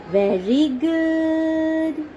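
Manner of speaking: slow, encouraging praise; slow drawn-out praise. Real, not acted. Praising toddler's answer.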